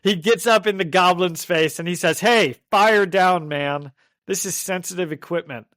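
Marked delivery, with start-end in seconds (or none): 2.2-5.7 laid-back seventies dude, lightly voiced; lightly voiced groovy guy scolding. A hint of a seventies dude telling off Norman Osborn. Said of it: "He's like a seventies guy".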